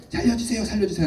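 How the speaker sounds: high, quick, urgent plea; acted cry for help. Pastor voicing a drowning person beside an angler, urgent cry. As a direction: mimic a drowning person calling out. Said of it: "누가 빠져서 소리를 지르고 있습니다".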